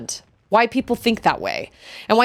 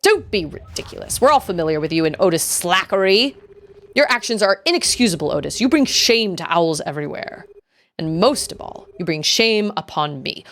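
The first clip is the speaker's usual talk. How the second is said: stern owl elder. Acted. Elder shames Otis for slackery, stern and grave. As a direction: pronounce shame on a student.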